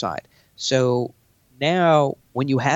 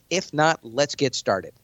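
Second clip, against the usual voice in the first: confident meeting opener; 2 semitones higher, slower than usual. Shown as a demonstration. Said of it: "start it like this".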